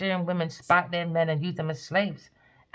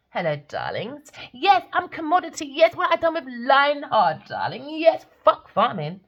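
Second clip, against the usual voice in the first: breathy vintage purr; 6 semitones higher, 4 dB louder than usual. Retold or imitated. Mocking celebrity impersonation.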